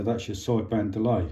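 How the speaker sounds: ordinary talk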